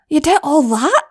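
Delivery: a touch of proud disbelief; wondering. Acted. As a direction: marvel at her little sister. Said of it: "Flash asked wonderingly".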